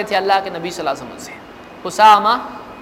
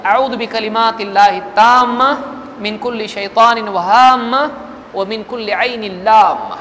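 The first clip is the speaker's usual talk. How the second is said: slow, measured Arabic prayer recitation; slower than usual. Acted. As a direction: recite the dua slowly and solemnly. (دعا کی آہستہ، سنجیدہ تلاوت)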